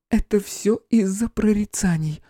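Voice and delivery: high, slow despair; despairing medium. A narrator's reading. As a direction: say it hopelessly. Flora in despair.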